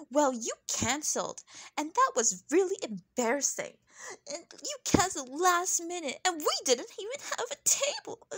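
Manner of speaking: mimicked whine, climbing high at the end; mocking complaint. Mimicking a castmate complaining about cancelled dinner, mocking complaint. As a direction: parody a petty grievance, pitch rising.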